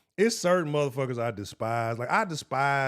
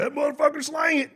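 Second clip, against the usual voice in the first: mocking the fans; 12 semitones higher, 6 dB louder than usual. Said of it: "But y'all like".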